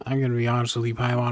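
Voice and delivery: ordinary talk, nothing marked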